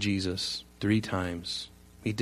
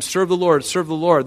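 louder, higher repeated exhortation; insistent urging; 6 semitones higher, 6 dB louder than usual. Acted. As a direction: urge the crowd on, pressing each repeat. Acting out Joshua urging the people.

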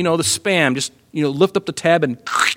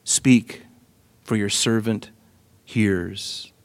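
reverent; 3 semitones lower, much slower than usual. Acted. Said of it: "And Samuel answered".

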